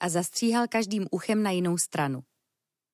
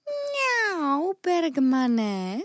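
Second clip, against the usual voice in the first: high sung meow; stretchy cat call; 9 semitones higher, much slower than usual. Acted. Cat greeting the dog from window, high meow. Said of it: "ozvalo se z okna".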